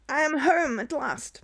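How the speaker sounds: loud, high, drawn-out cry; triumphant homecoming. Acted. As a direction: call it out slowly and proudly. Streamer voices hero's homecoming.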